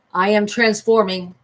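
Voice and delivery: big, slow, loud anime announcement; magical girl transformation. Pretend. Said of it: "Magical girl transformation sequence".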